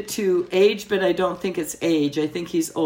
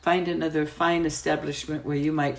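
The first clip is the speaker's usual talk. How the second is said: put-on softer, offended French-accented waitress; 5 dB quieter than usual. Waitress taking offense at his tone, French accent. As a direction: ask him to leave, coolly polite, French accent. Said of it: "my French was impeccable".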